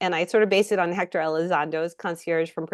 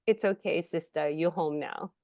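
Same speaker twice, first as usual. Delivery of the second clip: gentle reassurance; 2 semitones lower, 4 dB quieter than usual. Retold or imitated. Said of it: "I can't do the accent".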